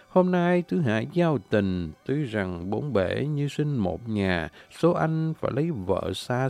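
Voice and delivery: spoken quan họ verse, unhurried and lyrical; verse recitation. Acted. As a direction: speak the lyric like a poem, drawing out lines.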